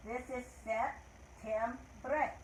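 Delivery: septiembre drawn out slowly as sep-tiem-bre; slow Spanish word. Shown as a demonstration. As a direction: teach septiembre slowly to children. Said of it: "Let's try it in Spanish".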